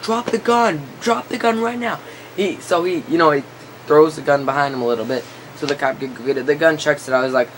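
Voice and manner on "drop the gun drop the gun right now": higher, commanding mock cop voice; imitating a cop yelling at a kid to drop it; stern cop command. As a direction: bark it like a cop ordering a kid.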